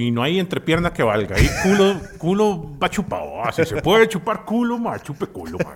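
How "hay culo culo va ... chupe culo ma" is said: laughing excitement. Real, not acted. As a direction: push it up, cracking yourself up. Comic advice, laughing.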